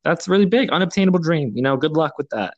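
high, mocking doubter voice; hammed-up mock disbelief at a big dream; doubting naysayer. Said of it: "a lot of people would say".

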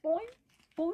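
bouncy imitated bird boing; sage grouse call. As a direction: mimic a sage grouse display. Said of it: "That was me being a sage grouse".

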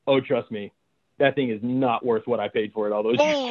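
low, grave deadpan punchline; mock serious. Old friend refuses the soul, mock grave tone. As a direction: deliver it like a solemn confession. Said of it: "like, really serious".

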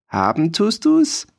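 put-on high, cracked old-man yell; a scrawny old farmer shouting up at the soldier; shrill old farmer's cry. A narrator's reading. Old farmer shrieks at the boasting soldier. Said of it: "schrie das mutige Bäuerlein".

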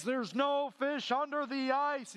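slow mock divine boom, the biggest take yet. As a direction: boom it down like the voice of God. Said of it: "the voice came booming".

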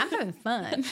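mock carefree, through a laugh; playful laughing quote. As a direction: tease her with a laughing carefree line. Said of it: "You're like".

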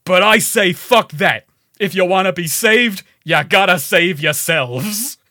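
rally the crowd in a badly faked accent; Jack Paris. Game rebel telling people to save themselves, bad accent. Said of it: "my bad accent".

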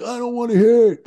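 imitating Jimmy's dismissal. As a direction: squeal it out like a fed-up boss. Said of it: "And he's like".

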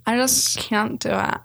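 put-on slow whiny teen; teenager voice. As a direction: drag it out like a sulky student. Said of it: "Our teenager impression is getting so good".

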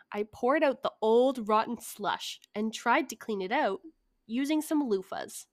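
measured story narration; telling a written tale; story reading. Acted. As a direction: read it aloud with deliberate emphasis. Reads out a prepared story.

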